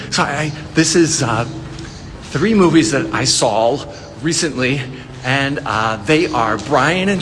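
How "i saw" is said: "saw" pronounced "sawl"; deliberate mispronunciation. Real, not acted. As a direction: put a playful L on the end of "saw". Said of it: "continue to mispronounce the word S A W".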